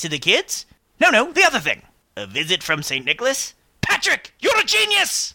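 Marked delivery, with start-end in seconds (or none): 3.8-5.3 excited exclamation. Acted. Sudden inspiration.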